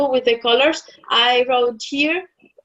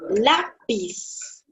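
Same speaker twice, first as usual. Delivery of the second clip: lápiz said slowly, stress on LA; slow model word; 5 dB quieter than usual. Shown as a demonstration. Teacher models lápiz slowly for the class. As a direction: draw out lápiz with weight on LA. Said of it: "a word that you may know".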